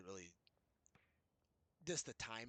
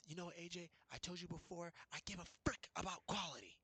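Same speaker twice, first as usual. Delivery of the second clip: higher-pitched mock voice for the manager; a lightly hammed-up boss voice, higher; mimicking the boss; 7 semitones higher than usual. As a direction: lift the voice up to play the boss lecturing. Retelling boss's words in argument.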